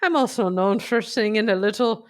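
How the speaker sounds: hammed-up bad Irish accent; dubious Irish accent. Joking about Irish goodbyes, dubious Irish accent. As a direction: boast in a wobbly Irish brogue. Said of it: "you're not known for your Irish accent".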